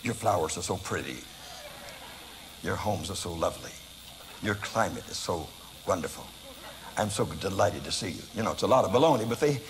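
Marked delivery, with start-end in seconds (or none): 0.0-8.2 butter up the crowd, half mocking; a gently sarcastic evangelist welcome; mock flattering evangelist. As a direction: lower and softer, sugary polite greeting. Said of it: "ready to do like evangelists usually do".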